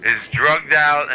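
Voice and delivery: slow, drawn-out, dazed words; sedated. Acted. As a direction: stretch it out drowsily. Slowed on nephew being drugged.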